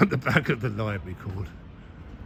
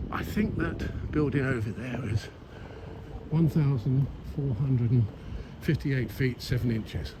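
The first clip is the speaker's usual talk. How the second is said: know-it-all guide; 4 dB quieter than usual. Retold or imitated. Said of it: "talking like that".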